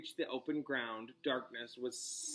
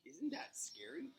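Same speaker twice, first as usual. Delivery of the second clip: hushed higher aside; 9 semitones higher, 11 dB quieter than usual. Real, not acted. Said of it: "repeats, higher and hushed".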